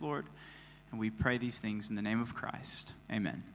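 soft, reverent prayer voice. Real, not acted. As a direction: pray quietly and humbly. Pastor prays before sermon.

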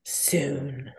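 soft, hushed promise to a book; quiet promise. Retold or imitated. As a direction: murmur it low and quiet. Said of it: "I keep looking at it going".

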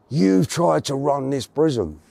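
slow, lightly imitated Welsh; a Welsh officer's accusation, roughly imitated and drawn out; Welsh accent. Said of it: "in a Welsh voice".

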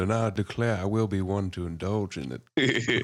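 loud, slow, laughing proclamation; laughing grand declaration. Retold or imitated. Mock grandiose southern declaration.

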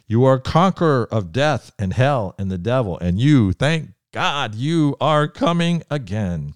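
rising, declaiming praise prayer that swells on each title; fervent praise litany. Acted. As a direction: call out each name of Jesus like an anthem. Alphabet litany of praise to Jesus.

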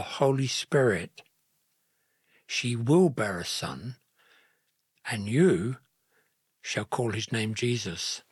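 measured, solemn proclamation; powerful angelic pronouncement. A narrator's reading. The angel speaking into Joseph's sleep, powerful and solemn. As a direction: pronounce each phrase deliberately, with pauses. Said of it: "spoke powerfully into his sleep".

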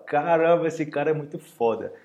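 wide-eyed admiring cry; amazed exclamation. Acted. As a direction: gasp out how great he is. Amazed reaction to acrobatics.

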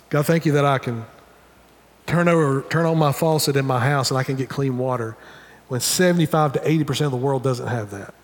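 low, unhurried prayer of simple thanks; thankful prayer. Acted. Preacher models everyday thanks to God, low thankful prayer. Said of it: "pausing and saying".

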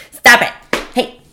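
half-laughing telling-off; laughing scold. Real, not acted. Telling the cat off, cracking up, laughing scold.

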